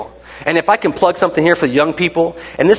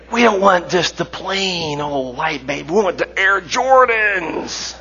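mock fussy parent; 3 semitones higher, 4 dB quieter, slower than usual. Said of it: "we would say".

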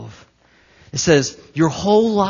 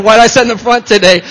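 nervous Daryl; 6 semitones higher, 10 dB louder, faster than usual. Retold or imitated. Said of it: "He's like".

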